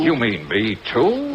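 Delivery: mock surprise. Sarcastic rise at threat.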